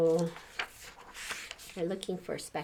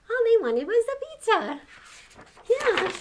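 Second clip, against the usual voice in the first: amused; 14 semitones higher, 8 dB louder than usual. Real, not acted. Reader laughing at pizza joke.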